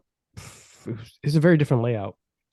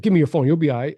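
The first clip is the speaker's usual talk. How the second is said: robber demanding phone; 4 semitones higher, 4 dB louder than usual. Retold or imitated. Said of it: "He's like".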